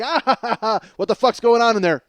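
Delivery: high, loud demand from another room; angry mom yell. Retold or imitated. Mom to hysterical sons next door, angry yell. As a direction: holler it like a furious mother.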